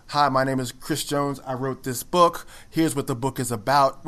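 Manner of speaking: slow, monotone book pitch; mock-boring, evenly paced monotone delivery. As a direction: recite it slowly like a dull author introduction. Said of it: "which is very monotone. It's very boring".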